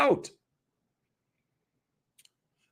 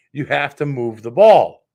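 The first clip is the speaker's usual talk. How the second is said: frustrated; 3 semitones lower, 10 dB louder than usual. Real, not acted. Frustrated rant peak.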